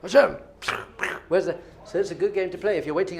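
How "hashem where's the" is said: awed calling out. Retold or imitated. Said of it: "I was like".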